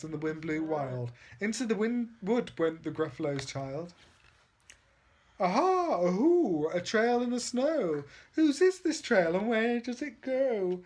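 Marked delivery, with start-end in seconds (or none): 5.4-10.8 high, louder excited chant; thrilled little explorer; excited discovery. Acted. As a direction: sing out the find with glee.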